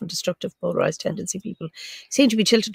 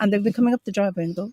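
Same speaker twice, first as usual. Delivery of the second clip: ordinary delivery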